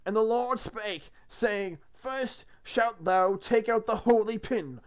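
slow, solemn biblical recital; scripture reading. Acted. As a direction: intone it like a sermon.

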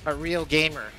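said with a burp; burping the words. Real, not acted. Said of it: "Said with a burp".

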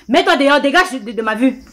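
loud angry dismissal; shouting. Acted. Sister throwing an unwanted visitor out of the house, shouting. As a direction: order them out, raising your voice. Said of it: "Pourquoi tu cries?".

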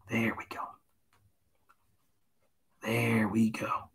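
hushed, gentle painting-instructor patter, half whispered. Acted. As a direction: soothe the viewers like a TV painter. Soft Bob Ross painting instructor voice.

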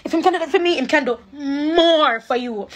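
pushing the words out through real crying; tearful, choking on the words. Real, not acted. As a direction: voice breaking into tears. Breaks down talking about God.

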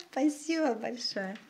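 laugh, then say thanks lightly; amused, laughing thank-you. Real, not acted. Laughs while thanking a viewer.

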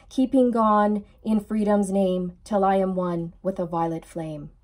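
rhythmic rhyming prayer read; steady devotional reading; prayer recitation. Real, not acted. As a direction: chant the verses like a devotion. Reads protection prayer aloud.

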